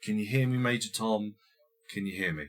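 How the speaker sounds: soft, whispered pleading to a son; father whispering to his comatose son; tender whisper. Retold or imitated. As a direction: murmur gently at the bedside. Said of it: "And he's like".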